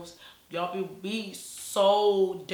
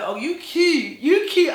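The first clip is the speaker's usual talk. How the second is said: high, loud put-on squeal of approval; hammed-up, gushing imitation, pitched way up; mock brother voice; 10 semitones higher, 10 dB louder, slower than usual. Brother sizing her up, exaggerated high mock voice. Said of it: "he ain't talking like that".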